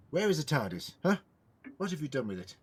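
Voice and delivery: loud, demanding shout into the empty room; shouting at the walls. Acted. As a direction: call out hard to whoever is hiding. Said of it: "why are you shouting at the walls".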